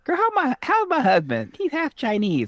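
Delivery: high-pitched incredulous protest; comic high-voiced outrage; mock indignation. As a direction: squeal it in playful disbelief. Mock indignation about half-Chinese husband.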